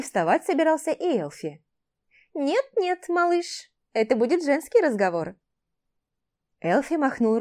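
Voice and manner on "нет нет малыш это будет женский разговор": playful refusal. Acted. Airin shooing Elfie away.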